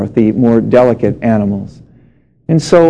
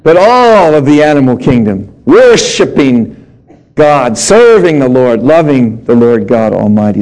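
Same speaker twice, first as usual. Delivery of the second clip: emphatic preaching. Acted. Preaching climax, slow emphatic.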